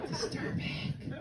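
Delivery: slow, hushed whisper; very soft, drawn-out verdict; disturbed aside. Acted. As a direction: whisper it slowly, appalled. Hushed verdict after the outburst.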